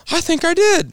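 winded. Retold or imitated. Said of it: "And I'm like".

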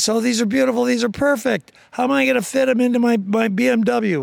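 a hint of a fancy customer cooing over the corn; mock posh city lady. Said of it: "She goes".

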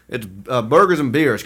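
lightly put-on American accent. Host showing off an American accent, mock American accent. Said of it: "talk with my American accent".

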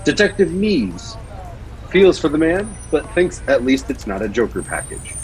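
dramatic story reading; story narration. Acted. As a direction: read it like an audio drama narrator. Reads Batman story aloud.

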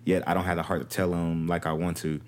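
low, even letter-reading voice; reading aloud. Acted. Co-host reading a troubled wife's letter, read aloud.

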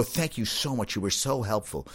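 soft, sugary fake thanks; softly sarcastic mock gratitude. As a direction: thank her with sweet sarcasm. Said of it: "it's sarcastic".

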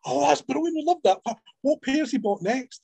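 imitating gushing readers. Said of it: "feedback I got from women".

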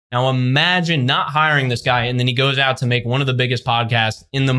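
ordinary talk

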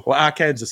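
"Arkansas" said as Ar-KAN-zus, with a sounded final s; Arkansas as Ar-Kansas. Shown as a demonstration. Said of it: "however you say it".

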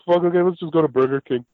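rudely awakened, swearing at the empty fridge; Rod voice. Retold or imitated. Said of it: "And that's my Rod voice".

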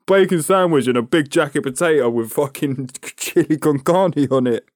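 laughing. Real, not acted. Laughing about bacon sandwich picture.

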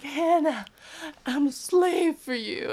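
breathy pop-star purr, slow; sing-talk it like a pop star; pop-star impression. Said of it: "pretended to be a pop star".

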